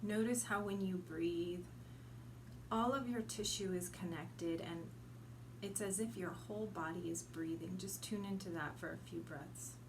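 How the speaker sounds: unhurried meditation guide, long pauses between phrases; guided meditation. Acted. Guide leading listeners to send roots into earth, meditative. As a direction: guide listeners gently inward, letting each image settle.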